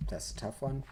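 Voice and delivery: talking through hiccups; hiccuping mid-sentence. Real, not acted. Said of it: "I'm hiccuping".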